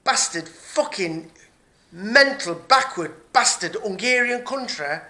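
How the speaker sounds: slow, loud, spat-out curses; real anger dragging out every insult; furious swearing at the country; livid. Real, not acted. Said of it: "I'm fucking livid".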